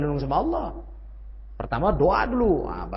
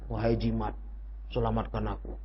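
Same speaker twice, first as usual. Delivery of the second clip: mock plea; 8 semitones lower, 10 dB quieter than usual. Mocking someone pleading to amulet.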